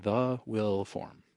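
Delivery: drawn-out disbelieving repeat; slow incredulous echo. Retold or imitated. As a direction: say it slowly, like it's absurd. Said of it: "I'm like".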